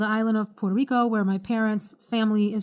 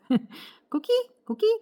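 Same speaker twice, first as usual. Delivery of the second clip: coqui frog call; 11 semitones higher, slower than usual. Shown as a demonstration. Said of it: "it sounds like this".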